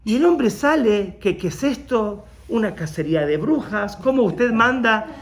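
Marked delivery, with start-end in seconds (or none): 1.4-5.1 higher, louder, offended protest; the accused man protesting indignantly on the phone; indignant outburst. Retold or imitated. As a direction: act out the man's outraged denial. Man accused of stealing reacts.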